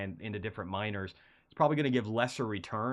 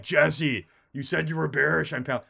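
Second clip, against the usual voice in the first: loud, higher imitation of upset viewers; mock accusing outcry; 6 semitones higher, 8 dB louder than usual. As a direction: call out an accusation, imitating a complainer.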